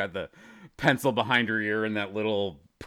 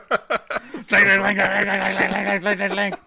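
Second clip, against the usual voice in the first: mock clinking; 7 semitones higher, much slower than usual. Imitating dropped silverware.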